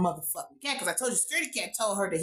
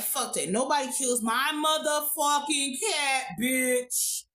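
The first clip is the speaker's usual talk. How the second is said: mock furious rant; 4 semitones higher than usual. Wife demanding payback for her dead cat, angry hammed-up rant. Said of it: "His wife like".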